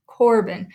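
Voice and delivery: "Corbin" with COR stronger, bin light; stress on first syllable. Shown as a demonstration. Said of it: "we pronounce that a little bit stronger".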